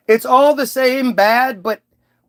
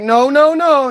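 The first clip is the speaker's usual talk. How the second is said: higher, louder no, no, no; mock Mary turning it down; Mary refusing; 5 semitones higher, 4 dB louder than usual. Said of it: "And Mary's like".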